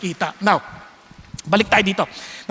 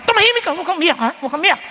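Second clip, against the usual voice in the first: hushing father; 5 semitones higher, much faster than usual. Retold or imitated. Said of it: "mga tatay".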